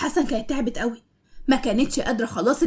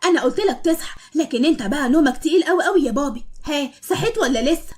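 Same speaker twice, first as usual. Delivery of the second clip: teasing laugh; 3 semitones higher than usual. Acted. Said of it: "يضحك بصوت عالي".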